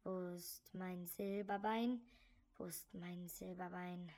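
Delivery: slow, low grinding ghost voice; deep ghostly count voice. Acted. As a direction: drag each word out like a ghost. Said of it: "Wieder mit tiefer Stimme".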